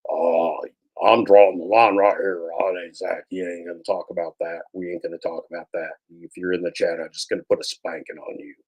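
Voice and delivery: lightly voiced mock tough guy; a hint of a macho streamer laying down the law; sneering parody of a deep-voiced host; mocking Zach. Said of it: "your low testiculars and your deep voice".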